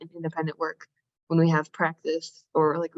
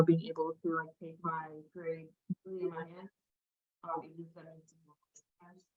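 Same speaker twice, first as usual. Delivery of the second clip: trailing off; 13 dB quieter than usual. Real, not acted. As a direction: voice fading away to almost nothing. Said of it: "Your voice trailed off a little bit".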